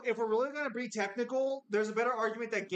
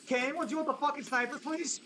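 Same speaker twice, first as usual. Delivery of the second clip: frustrated yelling; 7 semitones higher than usual. Real, not acted. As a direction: demand help, rising frustration. Repeated plea, more urgent.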